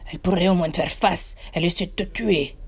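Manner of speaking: lightly put-on golem voice; mild sidekick voice. A narrator's reading. Golem Hicham complaining to the narrator. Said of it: "dit le golem".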